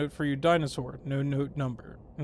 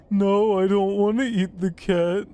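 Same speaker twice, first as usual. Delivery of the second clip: loud, higher-pitched protest; 4 semitones higher, 7 dB louder than usual. Pretend. Player refusing to eat the cat in the game, loud protest. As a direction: refuse loudly, pitch pushed up.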